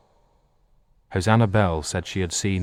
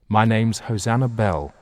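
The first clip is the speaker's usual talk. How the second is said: grand; 5 semitones higher, 5 dB louder than usual. Acted. Grand self-introduction.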